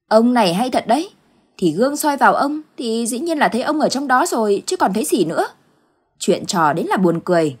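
wife teasing her husband's fuss; exasperated wife. Acted. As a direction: brush him off, half laughing.

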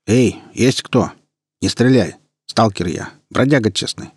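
slow loud call toward the bushes; deliberately loud call. Acted. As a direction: call out loudly on purpose. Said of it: "нарочито громко".

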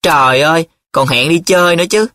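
high-pitched amazed outcry; exclaiming. A narrator's reading. Nhiệm reads further in his friend's letter, crying out. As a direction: cry out in astonishment. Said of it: "Nhiệm lại la lên".

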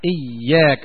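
"إياك" with a doubled ya, iyyāka; kasra and shadda. Shown as a demonstration. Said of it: "وتشديد الياء". ("إياك" بتشديد الياء)

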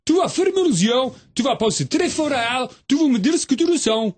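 voix aiguë, posée, qui guide; fais-lui fermer les yeux doucement; Zouzou en guide. Acted. (Zouzou qui guide, voix plus haute)

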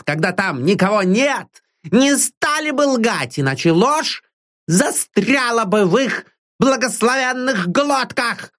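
put-on high, sly old maid's voice, teasing her master; a cheeky old servant needling him; old servant woman. Old servant Deborah needles her master in a high, sly voice.

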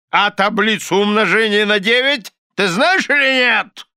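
high, forceful, angry demand; thundering. A narrator's reading. Husband quizzing wife on tables, thundering. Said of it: "прогремел мистер Корнер".

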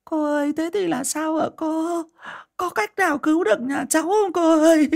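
high wailing plea; whimpering plea. A narrator's reading. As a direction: beg the shaman near tears. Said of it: "bàng hoàng mếu máo".

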